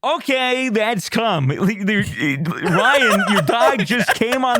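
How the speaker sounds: high, alarmed announcement. Retold or imitated. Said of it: "So I was like".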